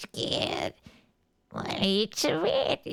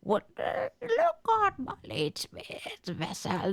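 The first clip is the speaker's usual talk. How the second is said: much higher wailing sob; crying voice; 10 semitones higher than usual. Acted. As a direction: wail through the tears. Creature bursts into sadness.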